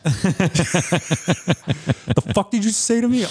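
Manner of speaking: slow, high mock threat; hammed-up gym rage; mock aggressive. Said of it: "I'm like".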